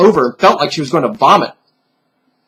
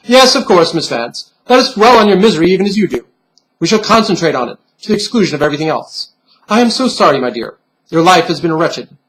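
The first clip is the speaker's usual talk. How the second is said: patronizing. Acted. Bunny pin mocking the girl's self-pity, patronizing and quick. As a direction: lay on the false pity, brisk and condescending. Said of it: "took on a patronizing tone".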